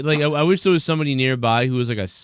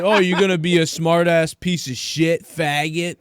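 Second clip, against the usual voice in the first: raised, higher mock-hostile voice; imitated angry insult; 5 semitones higher, slower than usual. Teller acts out the stranger escalating the bar quarrel, mock angry. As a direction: throw the insult like the bar bully.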